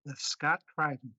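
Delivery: put-on Scotsman doing an American accent; best American accent. Guest delivers the challenge line, convincing American accent. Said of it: "with your best American accent".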